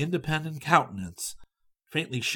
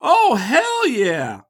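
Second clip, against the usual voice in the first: loud, slow, higher, bursting with enthusiasm; immense enthusiasm; 10 semitones higher, 10 dB louder, much slower than usual. A narrator's reading. Young student abroad gushes about homesickness, hugely enthusiastic. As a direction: throw the whole heart into it. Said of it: "This with immense enthusiasm".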